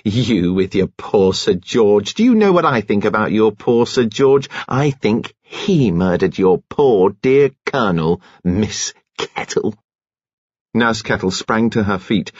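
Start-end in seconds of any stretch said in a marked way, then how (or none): 0.0-9.8 a hint of sneering Kitty; Kitty turns the accusation back, mildly sneering; lightly voiced spiteful Kitty.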